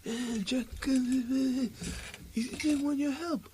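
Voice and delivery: hushed, put-on proper low voice; soft, halting mock low-voice impression; Tony. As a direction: murmur it in a fake low voice. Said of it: "that proper low voice".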